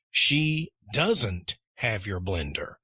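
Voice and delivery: doesn't leaned on with a fall; teacher modelling negatives; stress on doesn't. Shown as a demonstration. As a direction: hit doesn't in the line. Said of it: "does becomes doesn't".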